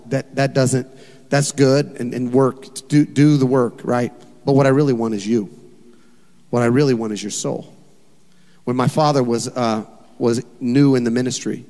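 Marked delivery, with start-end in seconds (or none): 0.1-7.7 tender God. Acted. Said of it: "And God's going".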